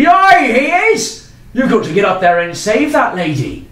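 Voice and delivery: high and loud urging; urgent townsman shout. Acted. Townsman urging the knight to save the lady, shouting. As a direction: yell at him to go now.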